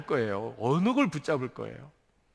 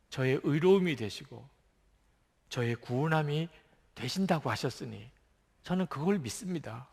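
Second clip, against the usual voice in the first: humble prayer; 4 dB quieter than usual. Acted.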